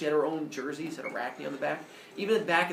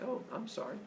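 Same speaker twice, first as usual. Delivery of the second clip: meek apology; 5 semitones higher, 12 dB quieter than usual. Acted. Cowed onlooker apologizes to Arachne.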